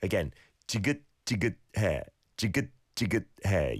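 지긋지긋해 with each 긋 closed off in the back of the throat; throat-closed final. Shown as a demonstration. Host re-models the word for a listener, closing off the throat. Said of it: "in the back of your throat to just close it off".

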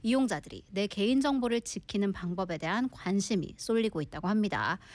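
brisk Korean news presenter; news read. Acted. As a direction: run through the bulletin at a steady, fast clip. Reads the news story in Korean.

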